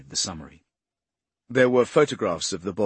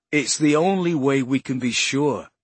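countering; 5 semitones higher, 7 dB louder than usual. Acted. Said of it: "Poe countered".

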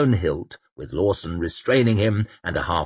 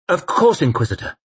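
Dimbick voice; 9 semitones higher, 4 dB louder than usual. A narrator's reading. Dimbick agrees quickly.

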